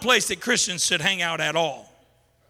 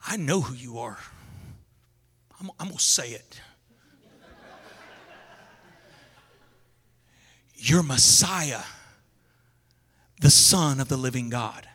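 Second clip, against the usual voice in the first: impetuous Peter; 9 semitones lower than usual. Retold or imitated. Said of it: "He gets all excited".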